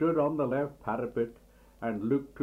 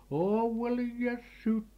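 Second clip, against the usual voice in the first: much higher fussing wail of a mother; mother dismayed at the ruined suit, high cry; mother's cry; 9 semitones higher than usual. A narrator's reading. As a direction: shriek it like a fussy hen. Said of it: "cried his mother".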